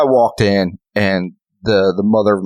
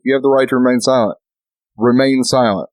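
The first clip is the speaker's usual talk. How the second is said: mock cop warning; 4 semitones higher than usual. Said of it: "I was like".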